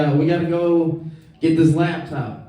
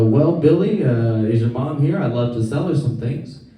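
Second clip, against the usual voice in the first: lower, polite salesman; 4 semitones lower than usual. Retold or imitated. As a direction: play a smooth door-to-door salesman. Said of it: "he says".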